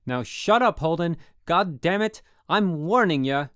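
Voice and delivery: he's losing it, bellow the warning; furious yell. A narrator's reading. Roommate losing his temper at Holden, furious yell. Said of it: "I really had him going".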